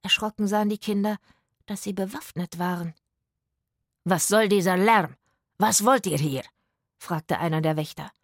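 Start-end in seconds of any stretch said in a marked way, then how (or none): 4.0-6.4 loud, gruff challenge from the gate; gruff guard. Acted. Guard scolding the noisy children, loud and gruff. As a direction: bark at the intruders.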